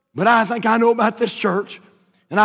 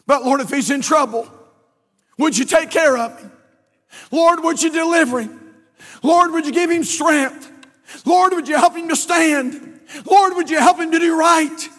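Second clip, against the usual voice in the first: earnest, building prayer; mother on her knees praying for her son; mother's prayer; 3 semitones higher than usual. Retold or imitated. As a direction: pray it, rising with each Lord. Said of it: "she was praying something like this".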